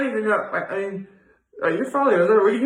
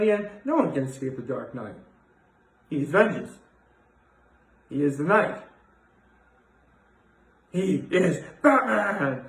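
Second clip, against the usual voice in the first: Batman voice; 2 semitones lower than usual. Pretend. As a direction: brood like the Dark Knight. Dramatic Batman catchphrase.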